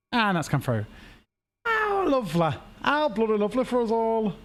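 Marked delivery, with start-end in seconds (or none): 1.6-4.3 higher, mock-posh English accent; playful mock-posh English gush. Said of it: "my accent has that gone like that".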